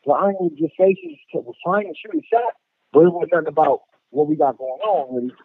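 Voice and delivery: muffled bad phone line; words blurred through a bad connection. Real, not acted. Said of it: "you sound muffled".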